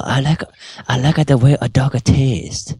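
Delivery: put-on hammy Russian accent. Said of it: "Russian voice".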